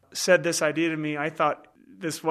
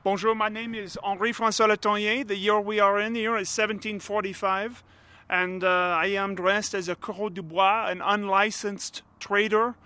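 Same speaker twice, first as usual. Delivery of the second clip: reenactor's put-on French accent; fake French accent; 2 semitones higher than usual. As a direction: play a colonial French trader. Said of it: "the fake French".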